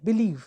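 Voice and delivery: बिलीव with the weight on लीव; stress on second syllable. Shown as a demonstration. Teacher repeats the stressed example, बिलीव stressed on लीव. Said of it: "is said with greater energy".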